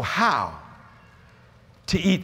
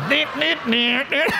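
laughing; 8 semitones higher, slower than usual. Real, not acted. Laughing delight at purple sight.

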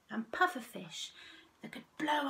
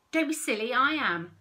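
high, loud squeal; 4 semitones higher, 9 dB louder than usual. Acted. Starfish fighting for the camera, squealing. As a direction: squeal in protest. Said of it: "squealed a starfish".

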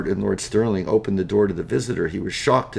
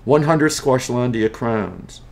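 slow deliberate offer; 4 semitones higher, 4 dB louder, slower than usual. Acted. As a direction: spell out the price slowly. Don names a sly price.

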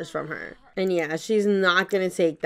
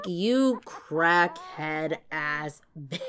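slow insulting rant. Pretend. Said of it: "gonna insult her".

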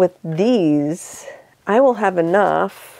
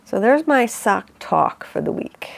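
mock Brooklyn accent; 2 semitones higher than usual. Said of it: "I don't have a Brooklyn accent".

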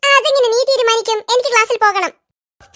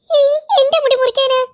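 bawling; 3 semitones lower than usual. Acted. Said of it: "പശു കരയും പോലെ കരയണോ".

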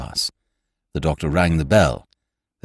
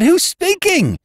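higher, louder insistent question; insistent repeat; 6 dB louder, slower than usual. A narrator's reading. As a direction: press the caller for an answer. Repeating into the phone.

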